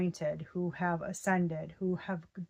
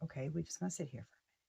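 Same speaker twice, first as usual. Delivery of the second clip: stunned; 3 semitones lower, 9 dB quieter, much faster than usual. Retold or imitated. Quoting her reaction to the flame.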